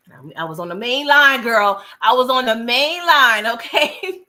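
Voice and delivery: loud, emphatic repeat of the main line; telling a friend with loud glee; excited shout. Real, not acted. Host telling Tamika she was on the main line, loud and gleeful.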